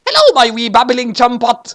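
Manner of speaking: lightly voiced British butler; a hint of a posh English butler; British old man. A narrator's reading. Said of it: "Watari said".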